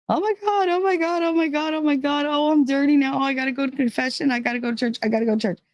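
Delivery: imitating a girl panicking after her first kiss, squealing then calming; freaking out. Lydia panicking to her friends after being kissed, frantic squeal. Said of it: "she was freaking out".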